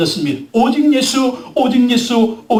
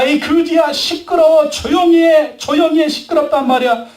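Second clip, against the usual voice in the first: higher-pitched, irritated shushing; scolding crowd; 5 semitones higher than usual. Retold or imitated. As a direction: shoo a noisy beggar away. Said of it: "사람들이 얘기합니다". (짜증 섞인 높은 목소리로 핀잔주듯)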